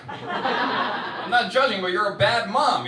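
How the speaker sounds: mock defensive.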